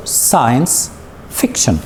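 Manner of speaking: science fiction, slow, stressing SCI and FIC; science, pause, fiction, each first syllable stressed; stress on both word beginnings. Shown as a demonstration. Teacher shows where stress is, science fiction stressed on SCI and FIC. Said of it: "The stress is in the beginning of the two words".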